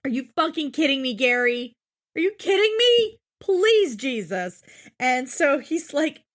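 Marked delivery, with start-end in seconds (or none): 0.0-4.6 fast, fed-up mock scolding; exasperated doctor rant. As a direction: rant at the hopeless patient, half in jest. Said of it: "And it's like".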